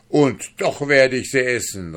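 high, loud defiant shout; furious vow. Acted. Duke swears before his guest, furious. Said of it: "rief er mit funkelnden Augen".

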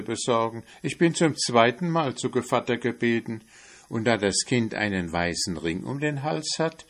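a hint of a wheedling cat; sly cat voice. Cat asks the mouse.

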